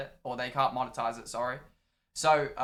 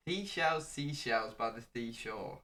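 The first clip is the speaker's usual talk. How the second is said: slow, careful mock imitation of a friend; imitating Harry; 4 semitones lower, 5 dB quieter, slower than usual. Shown as a demonstration. Impersonating a stream co-host, slowly and deliberately. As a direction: say it slowly as your mate would. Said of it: "Say seashell ... pretending to be me".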